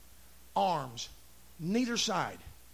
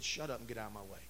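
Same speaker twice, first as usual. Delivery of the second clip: muted rebuff; 9 semitones lower, 8 dB quieter, faster than usual. Retold or imitated. Retells rebuffing the mother.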